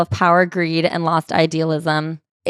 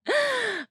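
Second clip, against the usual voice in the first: high breathy gasp of delight; a sudden high gasp at the news; sharp gasp; 9 dB quieter than usual. Real, not acted. Cohost reacts to the book with a high gasp.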